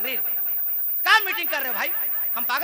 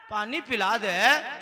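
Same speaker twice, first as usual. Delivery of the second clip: meek husband; much slower than usual. Acted. Tired husband pleads for water.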